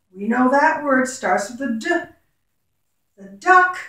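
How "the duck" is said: bright, loud announcement of the duck; cheerful teacher reveal; excited reveal. Shown as a demonstration. Teacher announcing the next animal.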